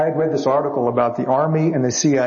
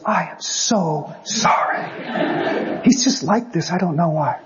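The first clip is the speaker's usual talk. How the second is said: apologetic wife; 4 semitones higher, much slower than usual. Retold or imitated. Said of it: "she goes".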